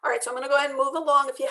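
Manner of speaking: fast, breathy whisper. Real, not acted. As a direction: rush it out in a whisper. Whispered rushed aside to class.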